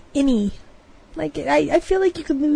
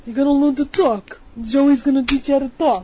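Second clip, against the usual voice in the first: gangster voice. Pretend. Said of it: "gangster voice".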